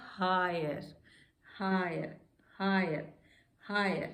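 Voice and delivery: हायर said slowly and clearly, repeated; careful demo. Shown as a demonstration. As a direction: model हायर with a long aa. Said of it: "हायर में क्या हो गया". (हायर का साफ़ उच्चारण)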